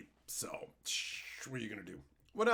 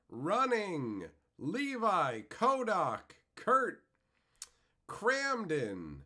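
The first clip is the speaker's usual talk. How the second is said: punchy announcer-style name calling; each name called out high, then falling; roll-call shout-out; 4 semitones higher, much slower than usual. Real, not acted. Streamer greeting viewers by name in chat, calling out.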